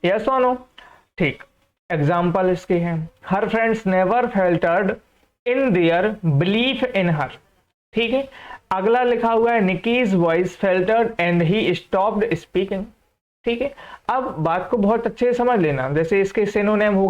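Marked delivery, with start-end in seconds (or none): 3.3-7.3 very slow reading. Shown as a demonstration. Teacher reading the example sentence to students, very slow. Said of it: "teacher reads example sentence". 9.6-12.8 very slow reading. Shown as a demonstration. Teacher reading the example sentence to students, very slow. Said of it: "teacher reads example sentence".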